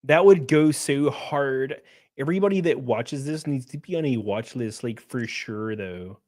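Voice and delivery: lightly mocking Valley girl; Hassan Piker. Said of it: "sounds like a Valley girl".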